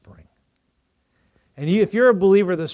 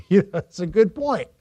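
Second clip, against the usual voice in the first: laughing; 3 semitones higher, 3 dB louder than usual. Retold or imitated. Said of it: "struck me, like".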